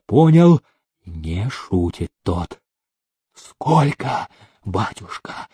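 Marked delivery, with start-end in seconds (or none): 3.3-5.5 croaked, fading much softer; hoarse croak. A narrator's reading. The terrified steward croaks to Demidov, hoarse and fading. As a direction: rasp it out in fright. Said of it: "прохрипел он".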